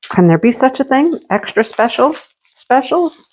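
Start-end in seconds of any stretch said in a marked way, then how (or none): 1.3-3.3 1 mock wonder. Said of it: "Yes, there can, Mindy".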